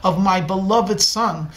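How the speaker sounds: proud father celebrating his son at dinner; gleeful. Acted. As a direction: announce it with proud delight. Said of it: "the father gleefully says".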